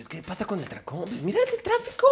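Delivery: very soft, high acted voice; soft-voiced quote. Driver and passenger discuss the jam, hushed imitation. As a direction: drop the volume, lift the pitch.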